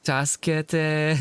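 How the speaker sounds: slow, high, desperate plea; dramatic cry for help. Retold or imitated. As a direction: beg for rescue with feeling. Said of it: "the Japanese version is so funny".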